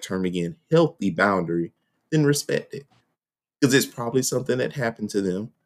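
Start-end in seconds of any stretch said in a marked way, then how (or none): 3.6-5.5 talking through a mouthful; words round a bite of peanut butter; mouth full of peanut butter. Real, not acted. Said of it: "I got peanut butter in my mouth".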